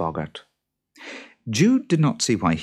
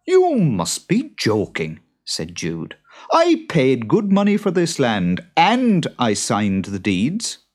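higher, louder farmer protest; a touch of an indignant farmer; 6 semitones higher, 4 dB louder than usual. Acted. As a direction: stand your ground. Jude arguing.

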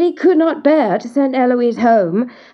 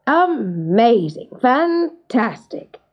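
lightly voiced king, savouring each word; delighted king; 2 semitones higher than usual. King sees the gold and proposes, mildly delighted. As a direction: marvel grandly, drawing out the first words.

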